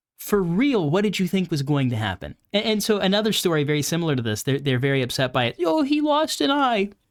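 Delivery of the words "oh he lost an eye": taunting fake crying, very high, drawn-out, whiny sob. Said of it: "Wah, wah, dude, a bit, a little violin moment. Boo-hoo".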